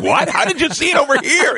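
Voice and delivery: high, loud astonished question; surprised. Retold or imitated. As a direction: squeal it in disbelief.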